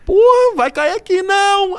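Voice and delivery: high, loud alarmed cry; startled shout. Real, not acted. Helicopter flies low overhead.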